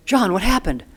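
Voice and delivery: sudden high, loud alarmed call; alarmed cry. Retold or imitated. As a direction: call out his name in shock at his bloodied face. Mother gasps at injured dad.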